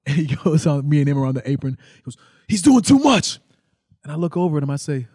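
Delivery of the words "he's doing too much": mock annoyed. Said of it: "And he's, like, mad".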